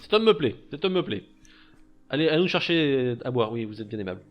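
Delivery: loud, hearty rich merchant; jovial old master. Acted. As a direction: boom out a warm welcome.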